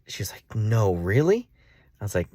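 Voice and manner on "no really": higher, rising incredulous question; surprised disbelief. Retold or imitated. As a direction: imitate a friend who can't believe it. Voices friend's disbelief at gift.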